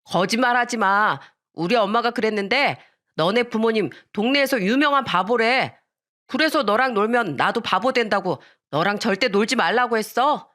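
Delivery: acted childish quarrelling; argumentative kid. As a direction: taunt back in a squabble. Boy argues back in quarrel.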